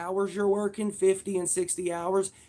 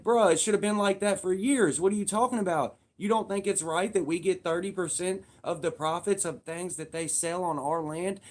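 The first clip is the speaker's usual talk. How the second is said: louder and higher, incredulous push-back; exasperated retort; 4 semitones higher, 3 dB louder than usual. Retold or imitated. Answering the complainers, loud and exasperated. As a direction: scoff at the complainers. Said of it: "it's like".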